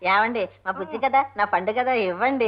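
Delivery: sweet coaxing. Acted. Wife begs husband for money, coaxing sweetly. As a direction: wheedle him with pet names.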